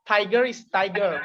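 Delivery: tiger with an American accent, final r sounded. Shown as a demonstration. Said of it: "United States accent".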